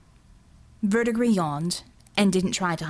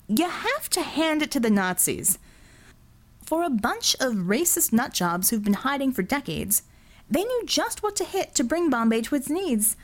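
lightly voiced sneering villain. Verdigris needling Singh about the filtration plant, mocking. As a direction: gloat about the Nazis with amused contempt.

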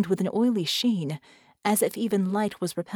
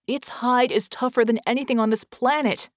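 raised, higher urgent voice; moderate acted scream; 5 semitones higher, 5 dB louder than usual. Red rebuts Vicky's hope, yelling in desperation. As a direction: argue back in a restrained yell. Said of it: "Red screamed".

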